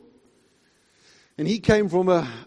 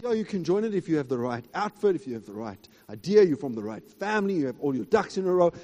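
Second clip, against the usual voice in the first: mocking; faster than usual. Mocking worldly entry requirements.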